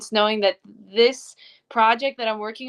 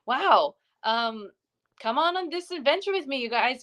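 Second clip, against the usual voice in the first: higher, playful call to join in; mock invitation; 3 semitones higher than usual. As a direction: sell the adventure with a lifted, teasing voice.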